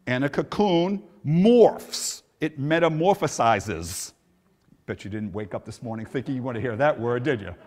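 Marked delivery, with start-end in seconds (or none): 0.1-4.1 slow dramatic. Acted. Dramatic illustration.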